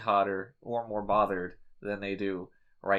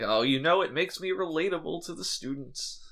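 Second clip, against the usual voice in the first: lightly voiced old man, pitched up; a hint of an old man's voice; vaguely old man; 5 semitones higher than usual. Host quoting Data to co-host, vaguely old man voice. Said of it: "I did a vaguely old man voice".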